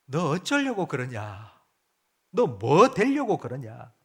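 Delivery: slow, exasperated parental lament; drawn-out, worried reproach; sighing parent. Acted. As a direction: lightly act out a parent sighing over a child. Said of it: "한숨을".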